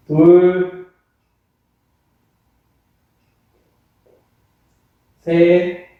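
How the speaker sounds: loud counting of reps; barking gym coach. Real, not acted. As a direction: call out each count firmly.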